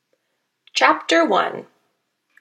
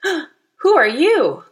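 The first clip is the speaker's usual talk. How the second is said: startled, slow and loud, higher; gasped question; 5 semitones higher, 7 dB louder, much slower than usual. A narrator's reading. Goldilocks startled by the stranger on the bank, gasping. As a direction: gasp it out in surprise. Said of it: "Goldilocks gasped".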